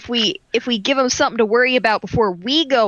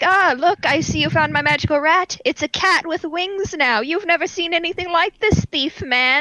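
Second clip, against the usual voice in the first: high, cackling witch voice; playful witch character voice; 4 semitones higher than usual. Acted. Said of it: "The witch voice is back".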